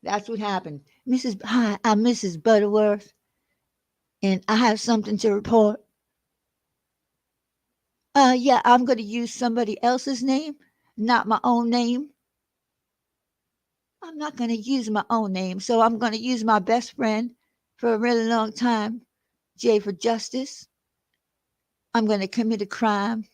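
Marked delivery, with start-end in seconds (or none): 1.1-5.8 lightly mocking Southern lady accent; Missus Butterworth impression. Host mimics Oni calling in a report, mock Southern lady accent. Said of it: "imitating Oni doing his Missus Butterworth accent". 8.1-23.3 a hint of a mock Southern lady; lightly put-on Southern accent, mocking; Missus Butterworth impression. Host mimics Oni planning a fake call, light mock Southern accent. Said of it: "imitating Oni doing his Missus Butterworth accent".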